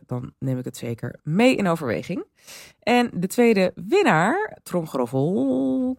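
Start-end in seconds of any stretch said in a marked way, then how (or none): 2.8-6.0 slow, loud build-up to a reveal; milk the suspense; dramatic announcement. Real, not acted. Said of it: "een soort van tromgeroffel dit".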